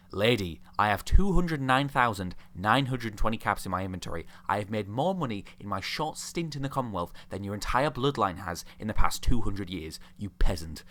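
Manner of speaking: mildly pompous put-down; haughty retort. Acted. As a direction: put her in her place with mock grandeur. Retort to Anne's insult.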